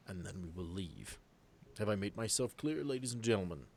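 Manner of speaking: lightly voiced commander's briefing; steady, deliberate orders with a hint of authority; Boyd's voice. Game master as Boyd addressing the militia, lightly voiced commander. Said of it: "I love this voice".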